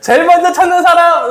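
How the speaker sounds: high-pitched, excited, elated calling out.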